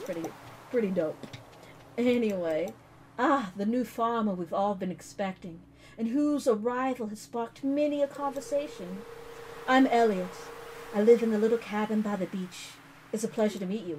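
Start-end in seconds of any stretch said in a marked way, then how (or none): 3.2-14.0 sultry Elliot voice. Acted. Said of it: "such a sultry kind of, uh, introduction".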